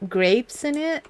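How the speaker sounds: mock the writer as a little kid; mock childish letter. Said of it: "getting angry about video games".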